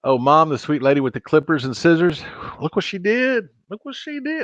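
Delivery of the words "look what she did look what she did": pitched way up, look what she did; excited show-off. Real, not acted. Showing viewers the haircut mom gave him, excited and high.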